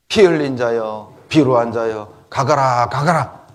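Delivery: measured mock denunciation; cursing from afar. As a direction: hurl an archaic curse after someone. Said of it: "멀리서 쫓아오면서 다윗을 욕했잖아요".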